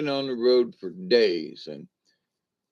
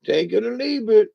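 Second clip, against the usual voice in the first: put-on high, creaky old granny greeting; 10 semitones higher than usual. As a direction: play a crotchety old granny, pitched way up. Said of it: "She goes".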